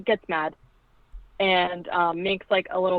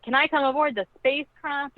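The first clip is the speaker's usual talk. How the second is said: put-on strange girl voice; 7 semitones higher than usual. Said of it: "the way she talks is very strange".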